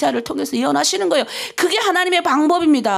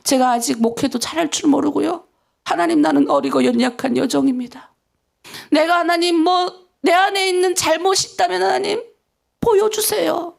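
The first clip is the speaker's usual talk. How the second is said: humble prayer. Shown as a demonstration. Pastor shows the flock how to pray, humble plea. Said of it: "그냥".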